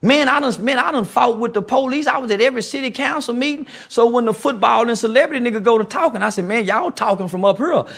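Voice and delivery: fired up and going off; heated rant. Real, not acted. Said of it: "Why you talk like that?".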